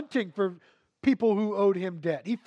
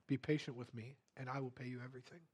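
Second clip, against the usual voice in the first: pleading; 6 semitones lower, 14 dB quieter, faster than usual. Acted. Servant begging the master.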